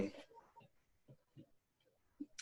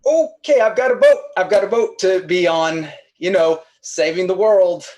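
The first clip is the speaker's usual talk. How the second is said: much higher, loud, flustered excuse; 6 semitones higher, 5 dB louder than usual. Real, not acted. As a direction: squeak out a hurried excuse. Panicked deflecting after the come-on.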